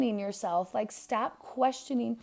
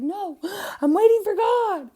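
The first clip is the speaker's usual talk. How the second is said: stubborn refusal; 10 semitones higher, 8 dB louder than usual. Retold or imitated. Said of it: "And he's like".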